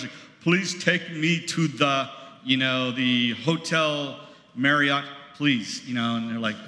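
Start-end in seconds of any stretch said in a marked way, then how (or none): 0.4-5.9 put-on American accent Spanish. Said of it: "like I was going in Spanish".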